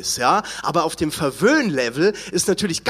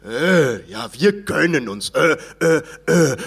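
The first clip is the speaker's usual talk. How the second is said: mock Ä sounds; 4 semitones lower, slower than usual. Shown as a demonstration. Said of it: "Da haben wir das nächste Ö".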